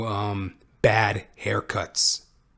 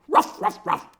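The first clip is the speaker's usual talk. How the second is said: dog barks; 14 semitones higher than usual. Acted. Imitated barking after joke.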